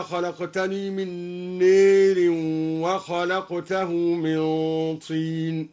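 drawn-out recitation, نار bent to a long e, neer; imala on نار. Shown as a demonstration. Teacher demonstrates imala, نار as neer. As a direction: tilt نار's long a fully toward e. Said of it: "وأمال قوله تعالى".

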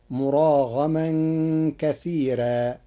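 كثيرا with a thin ra; light ra. Shown as a demonstration. Teacher showing Warsh reading, كثيرا with a light ra. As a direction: soften the ra in كثيرا. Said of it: "كثيرا بترقيق الراء".

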